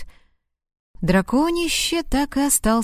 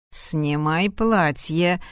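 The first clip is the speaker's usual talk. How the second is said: smirking; 4 semitones lower, much slower than usual. Acted. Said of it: "усмехнулся он".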